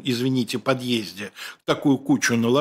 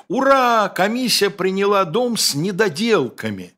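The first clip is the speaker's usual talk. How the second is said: excited shout; 6 semitones higher than usual. Retold or imitated. Cartoon shabashnik running to the crew, joyful shout. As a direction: yell the good news like a cheering crowd. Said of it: "и кричит".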